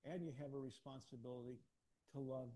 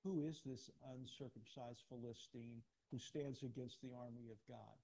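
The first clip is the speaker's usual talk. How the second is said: a hint of a shepherd boy taunting a giant; David's defiance. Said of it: "what David said to Goliath".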